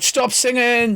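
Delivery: high mock shout of stop singing. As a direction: bark the order to stop singing. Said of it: "you shout".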